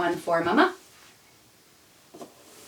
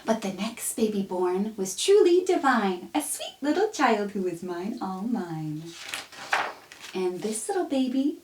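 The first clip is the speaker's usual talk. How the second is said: tender reading; 3 semitones higher, slower than usual. Acted. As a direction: read it lovingly to your own baby. Softer tender verse.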